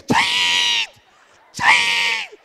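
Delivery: high, loud cry of Ching; whooping sound effect shout; excited shout. Real, not acted. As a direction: yell the sound of the kick, way up high. Cheering the kick in the trick.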